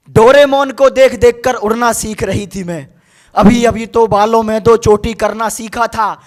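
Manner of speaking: measured verse delivery, rising and falling by couplet; poem recitation. Acted. Poet speaks a baby girl's words to an audience, measured recitation. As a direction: recite it line by line, sinking on closing lines.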